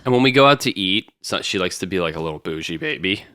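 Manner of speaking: crackly morning voice; a crackly, dry voice. Real, not acted. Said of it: "My voice is getting crackly".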